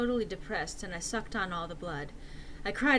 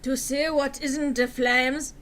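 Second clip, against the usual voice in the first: riddling; 4 semitones higher, 7 dB louder, slower than usual. Acted. Mysterious riddle.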